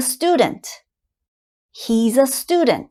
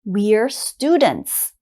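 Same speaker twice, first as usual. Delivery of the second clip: slow model sentence; slower than usual. Shown as a demonstration. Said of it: "let's look at we're".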